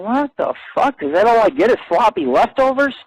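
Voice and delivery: lightly acted indignant thought; mock outrage. A guy watching the girl walk off, lightly mock outraged. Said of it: "pretty soon you're thinking".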